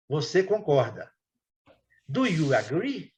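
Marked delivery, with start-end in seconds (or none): 2.1-3.1 slow, careful Do you agree, every word spaced; slow model question. Shown as a demonstration. Teacher slowly models Do you agree for the class. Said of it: "E o agree".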